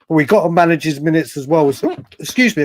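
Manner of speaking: hiccuping mid-sentence; talking through hiccups. Real, not acted. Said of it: "I've got the hiccups".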